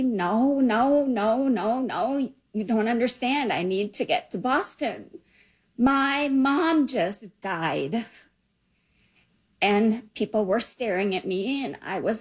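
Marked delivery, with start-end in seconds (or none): 0.0-8.0 distraught cry. Retold or imitated. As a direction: relive the panic of being stuck, half-shouting no. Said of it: "if I screamed or if I said loudly".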